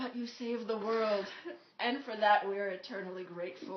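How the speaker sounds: a measured, mock-grand pronouncement; Dumbledore. Headmaster figure thanks the returning heroes, lightly imitated solemnity. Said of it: "he was the Dumbledore to our, like, Harry".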